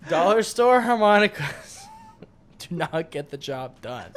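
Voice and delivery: loud, slow laugh-talk. Real, not acted. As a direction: laugh through it. Laughing after harmonica fail.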